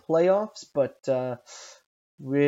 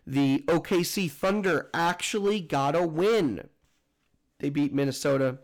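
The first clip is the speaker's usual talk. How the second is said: talking through hiccups. Real, not acted. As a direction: voice catching on hiccups. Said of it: "Sorry, I have the hiccups".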